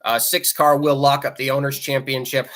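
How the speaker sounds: parched, dry-mouthed speech. Real, not acted. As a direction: talk with a dry throat. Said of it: "Sorry, I'm getting parched here".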